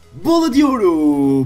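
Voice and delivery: ordinary delivery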